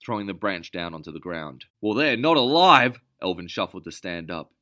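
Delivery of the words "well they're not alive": high, loud retort; shouting after her; called out. Acted. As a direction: call after her angrily. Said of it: "he called to her".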